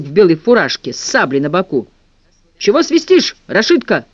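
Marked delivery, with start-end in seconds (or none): 2.6-4.0 high, calling shout. A narrator's reading. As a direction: call out across the yard. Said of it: "кричал человек".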